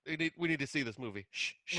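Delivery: quick playful insistence, then shush; mock impatient shushing. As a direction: play at being glued to the movie, hurriedly. Plays along as distracted movie watcher.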